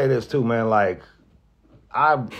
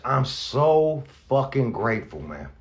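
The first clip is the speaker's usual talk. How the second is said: tearing up; slower than usual. Real, not acted. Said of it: "I'm gonna tear up".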